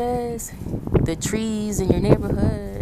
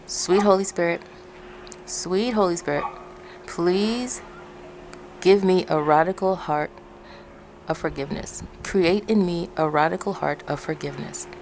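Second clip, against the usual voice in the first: prayer. Shown as a demonstration. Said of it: "Say like this".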